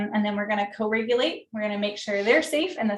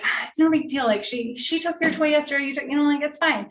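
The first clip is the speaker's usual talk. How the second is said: dismissive; 4 semitones higher, 3 dB louder than usual. Shown as a demonstration. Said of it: "I'm not gonna dismiss their feelings".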